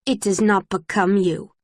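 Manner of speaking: parroting her cool rebuke; lightly mock her flat official tone; a touch of teasing mimicry; mocking imitation. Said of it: "in my best imitation of her voice".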